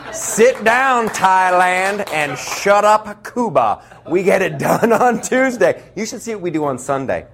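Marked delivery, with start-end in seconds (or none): 0.1-3.8 slightly raised, cocky taunting voice; mock taunt. Comic as America taunting other nations, cocky taunt. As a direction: gloat at the other countries.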